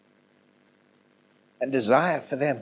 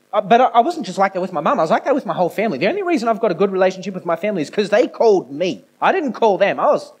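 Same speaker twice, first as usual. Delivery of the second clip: emphatic preaching; 8 semitones higher, 7 dB louder, faster than usual. Real, not acted. Preaches emphatically about himself.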